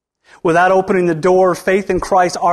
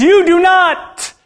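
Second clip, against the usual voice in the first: Jesus rebuking; 2 semitones higher, 3 dB louder, slower than usual. Retold or imitated. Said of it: "He said to the Pharisees".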